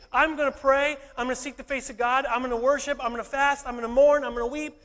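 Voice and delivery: fast, rising, driving repeated vows; preacher voicing Nehemiah vowing to act; building resolve.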